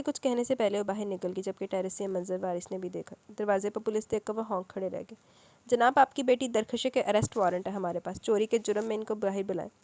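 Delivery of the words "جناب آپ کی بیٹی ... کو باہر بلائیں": a hint of a stern policeman; lightly voiced firm official. Policeman announces the warrant, lightly stern. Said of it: "کڑک آواز میں کہا".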